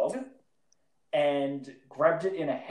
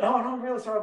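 apologetic owner; 9 semitones higher, 3 dB louder, much faster than usual. Retold or imitated. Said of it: "he's like".

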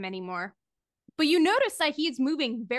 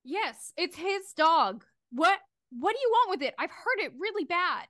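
put-on slightly agitated girl, higher pitch; mildly upset, higher voice; lightly voiced girl; 5 semitones higher than usual. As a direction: play a hint of a distressed girl. GM plays girl in pit.

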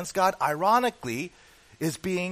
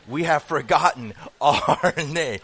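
slow, louder Gollum breaking into a laugh; laughing Gollum try; 8 dB louder, slower than usual. Retold or imitated. Preacher retrying Gollum for his church, laughing mid-line. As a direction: attempt the creature voice and crack up. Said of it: "the Gollum impersonation".

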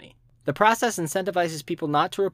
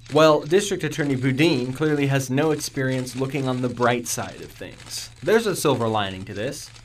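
police spokesman voice. Acted.

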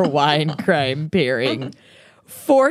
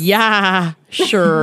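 put-on Minnesotan accent. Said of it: "unleash their worst Minnesotan accents".

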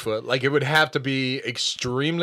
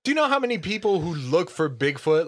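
incredulous exclamation; 6 semitones higher than usual. Retold or imitated. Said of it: "I was like".

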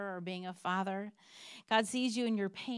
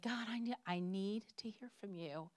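vulnerable plea. Retold or imitated. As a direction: retell a private plea to God, mildly vulnerable. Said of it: "like, vulnerable moments".

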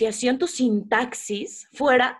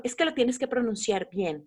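mock know-it-all; 6 dB quieter than usual. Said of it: "se turbo obsesiona con".

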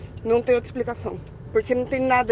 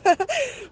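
short laugh, much higher; laughing off being called crazy; 10 semitones higher than usual. Real, not acted. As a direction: laugh at herself. Laughs at her own proposal.

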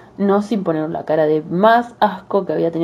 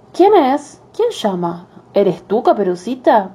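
a frail grandma calling out, higher; old grandmother voice; 4 semitones higher, slower than usual. Acted. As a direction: call out like an old granny. Grandmother answers door.

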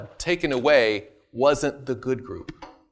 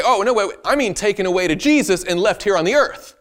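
mock objection; 7 semitones higher, 6 dB louder than usual. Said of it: "You could say".

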